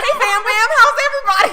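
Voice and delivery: high and loud with laughter; cheery greeting. Pretend. Pretend housemate greeting the family, laughing loudly. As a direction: breeze in hollering at everyone.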